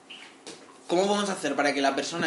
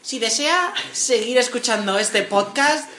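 lightly voiced cabin crew announcement; flight attendant voice; 3 semitones higher than usual. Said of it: "podemos poner voz de azafata".

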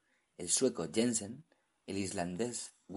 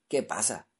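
curt; 2 semitones higher, 5 dB louder than usual. Acted. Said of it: "dijo secamente".

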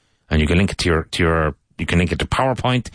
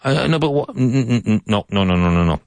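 emphatic refusal; 4 semitones higher than usual. Shown as a demonstration. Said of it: "I would actually say no".

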